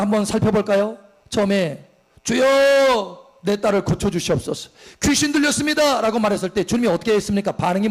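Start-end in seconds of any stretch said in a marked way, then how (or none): 2.2-6.0 high drawn-out cry of Lord; mock desperate plea to the Lord; woman's plea. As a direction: plead like a desperate mother. Pastor voices woman crying out.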